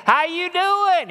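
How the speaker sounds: high, drawn-out country holler; hollered greeting. Acted. Uncle greeting the blind man he knows, high holler. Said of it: "He recognized my voice".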